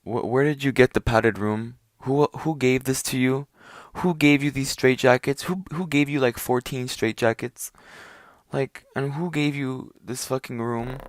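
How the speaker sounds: incredulous questioning. Retold or imitated. To himself about the padded room, stunned and incredulous. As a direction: pile on questions in stunned disbelief. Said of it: "I'm, like, thinking to myself".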